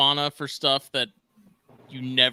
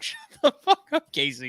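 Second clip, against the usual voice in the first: exasperated yell; 11 semitones higher than usual. Retold or imitated. Mock outburst at friend.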